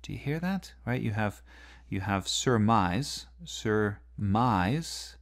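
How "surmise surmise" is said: surmise with stress on mise, rising; stressed word. Shown as a demonstration. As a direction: weigh down on surmise. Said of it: "these two stresses in a row".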